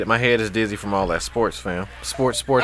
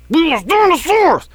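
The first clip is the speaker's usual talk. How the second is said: shouting; 4 dB louder, slower than usual. Real, not acted. Shouted outburst.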